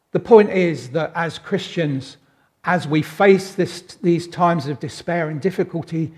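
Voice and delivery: ordinary talk, nothing marked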